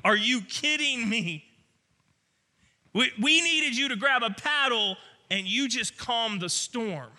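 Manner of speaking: high, loud, word-by-word disbelief; stunned wondering. Acted. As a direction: react incredulously to an impossible rescue. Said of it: "So relieved ... but wondering".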